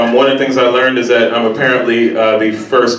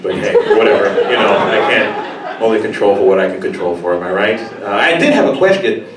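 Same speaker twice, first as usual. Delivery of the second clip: mock polite tourist; 4 semitones lower than usual. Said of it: "in Chinese and be like".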